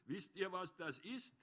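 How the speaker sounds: a touch of belligerence; aggressive. A narrator's reading. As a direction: put the question to the whole round as a challenge. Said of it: "schaute aggressiv in die".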